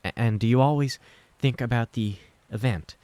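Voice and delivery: lightly voiced mother reciting symptoms; textbook questions. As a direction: run through the checklist like a textbook. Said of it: "as if memorized from textbooks".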